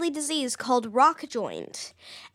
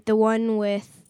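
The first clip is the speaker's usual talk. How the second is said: lightly deepened game-character voice; slow down into a low put-on voice; character imitation; 4 semitones lower, slower than usual. Shown as a demonstration. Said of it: "who sounds like this".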